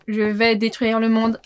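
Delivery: slow, low robot threat. Pretend. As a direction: drawl it out like an evil robot. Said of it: "Mais c'est un robot!".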